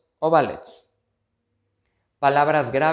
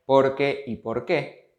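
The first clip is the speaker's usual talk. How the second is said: slowed contrast; slower than usual. Shown as a demonstration. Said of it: "para distinguir la función".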